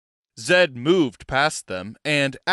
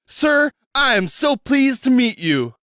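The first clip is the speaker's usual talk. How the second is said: sincere; 10 semitones higher, 4 dB louder than usual. Acted. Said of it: "with obvious sincerity".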